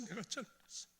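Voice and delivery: the words barely come out; choked whisper. Retold or imitated. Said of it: "아니야, 아니야". (아내에게 울먹이며 속삭이듯)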